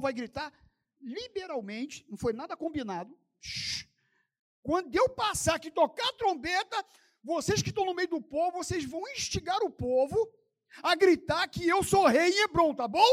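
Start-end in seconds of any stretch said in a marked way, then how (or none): 3.4-3.9 long unvoiced shh; conspirator's hush; hushing shush. Hushing about the secret plot. 4.6-13.0 high, insistent leader's briefing; acted ringleader instructing followers; conspirator giving orders. Acts Absalão briefing his plotters.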